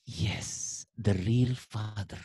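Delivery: slow, softened, savoured acted cheer; quietly thrilled child. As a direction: draw it out softly, relishing it. Child's quiet triumph after call. (sorak pelan anak, diucapkan lambat)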